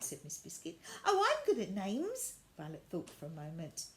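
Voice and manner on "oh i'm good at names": put-on much higher girl's voice; bright child's voice; curious girl. Violet meeting the new rag doll, high child voice.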